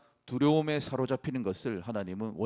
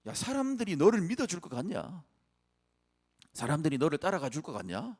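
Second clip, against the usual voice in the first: higher, taunting inner voice of fear; mocking voice of fear, pitched up; 7 semitones higher than usual. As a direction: sneer like your own doubts mocking you. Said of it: "두려움이라는 감정이 모세에게 이렇게 말하는 거예요".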